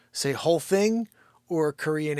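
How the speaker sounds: loud high call. Real, not acted. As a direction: call it out to chat. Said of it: "Let's just hear from you".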